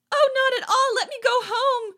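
high, loud laughing plea. Acted. Girl laughing nervously after the fright, loud high laugh. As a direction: laugh the words out.

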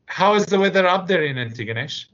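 cosy grandmother chatting on the phone; elderly woman. Retold or imitated. Old woman making small talk.

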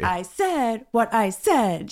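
slow, drawn-out catchphrase delivery; Nene Leakes. Retold or imitated. Co-host quoting a reunion show line, slow and emphatic. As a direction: quote it emphatically, stretching each word. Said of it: "it's a Nene Leakes quote".

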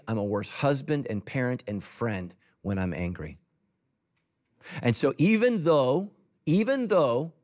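normal talking voice

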